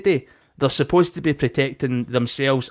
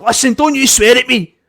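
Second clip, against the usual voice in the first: mock angry warning; 9 semitones higher, 5 dB louder than usual. Voicing the angry staff member.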